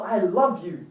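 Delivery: mean it to your partner; heartfelt. Shown as a demonstration. Telling a partner, low and heartfelt. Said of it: "You can say with heart, body, mind, and soul".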